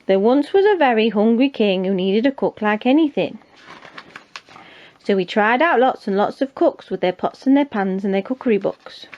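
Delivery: lilting, lively picture-book narration; story read-aloud. A narrator's reading. Reading a picture book for listeners, lively narration.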